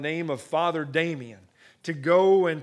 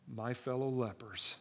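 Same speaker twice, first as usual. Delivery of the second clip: soft, calm words of reassurance; quiet, steady reassurance; calm, reassuring; 3 semitones lower, 11 dB quieter than usual. A narrator's reading. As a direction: say it gently to comfort them. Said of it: "in a very calm voice, with great reassurance".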